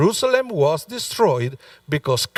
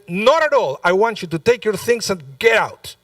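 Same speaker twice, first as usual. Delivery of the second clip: retold angry refusal; 4 semitones higher than usual. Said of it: "He said".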